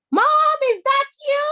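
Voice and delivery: put-on high, bright little girl voice, firm no; young girl refusing. Daughter refusing the tiger at the door, high and firm.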